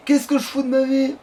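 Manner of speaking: high, exasperated wail at oneself; exasperated outcry. Real, not acted. Player questioning his own life mid-game, exasperated outcry.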